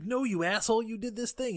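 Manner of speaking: high-pitched retold outrage; mock accusation. Daughter accusing her dad, mock indignant.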